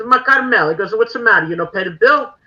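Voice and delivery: mock Dominic. Dominic voiced in ghost story.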